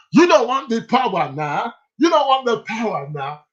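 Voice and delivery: imitating a preacher with a Nigerian accent; mock Nigerian preaching, pitched a bit high. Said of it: "The man had a Nigerian accent".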